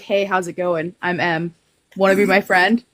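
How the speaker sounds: low-voiced awkward self-introduction; imitating your own deepened greeting voice. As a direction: drop your voice low to make friends. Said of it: "like, an octave lower than normal".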